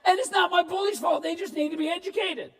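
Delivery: high, loud triumphant outburst; high, loud gleeful discovery; excited realization. Retold or imitated. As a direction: shout it like a kid who just figured it out.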